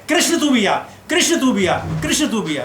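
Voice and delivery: retold friends' call, repeated and urging. Friends urging Krishna to come along, calling out.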